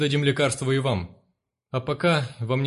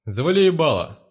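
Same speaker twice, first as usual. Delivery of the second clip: angry snap; 4 semitones higher, 5 dB louder than usual. Acted. Thug silencing the mother.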